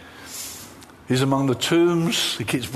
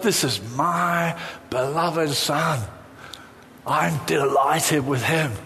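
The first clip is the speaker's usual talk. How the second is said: voice of God; slower than usual. Acted. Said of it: "God has said".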